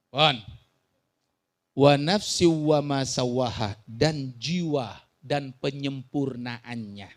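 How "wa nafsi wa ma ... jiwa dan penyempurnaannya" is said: low, slow scriptural reading; solemn verse translation. Acted. Preacher translates the verse for congregation, low solemn reading.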